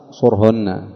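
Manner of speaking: صرهن said "surhunna"; damma on the sad. Shown as a demonstration. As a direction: give صرهن a short u. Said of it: "قرأ الجمهور بضم الصاد". (صرهن بضم الصاد)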